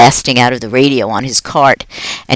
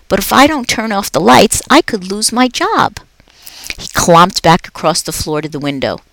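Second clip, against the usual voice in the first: a jolly night janitor chatting to a pet; upbeat, chatty custodian; Aldo the cheerful janitor; 2 semitones higher than usual. Acted. Aldo reassuring.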